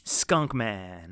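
hushed whispered nickname; whispering. Real, not acted.

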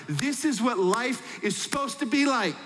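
high-pitched, hammed-up delight; elated exclamation. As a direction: act out someone thrilled that life works. Acts out thrilled businessperson.

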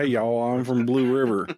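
lightly voiced country woodsman; woodsman's country talk. Imitating a buddy's woodsman uncle, light country voice. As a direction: put on a hint of folksy twang. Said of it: "Does he talk like that?".

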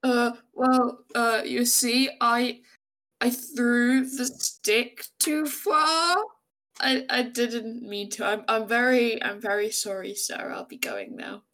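halting, slow excuse that fades away at the end; acted nervous panic. Arnulf excuses himself to the orc, nervous and stammering. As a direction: stammer an apology and back out of it. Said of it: "having a panic attack right now".

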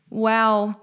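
incredulous wow. Real, not acted. Reacting to the woman's cold words to her crying partner, incredulous wow. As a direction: let the disbelief land in one word.

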